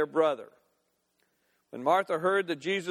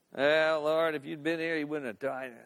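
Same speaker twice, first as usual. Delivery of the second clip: despairing; 3 semitones lower than usual. Acted. Grieving Martha to Jesus after her brother's death, in despair. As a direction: let it sink away in defeat. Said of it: "she could come in despair".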